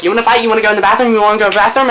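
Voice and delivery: overdone retold dare; extra. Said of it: "he was extra too".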